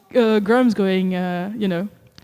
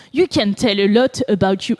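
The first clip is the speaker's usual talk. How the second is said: put-on very French accent; 4 dB louder than usual. Streamer reading Grams's tweet, very French accent. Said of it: "I give him a very French accent".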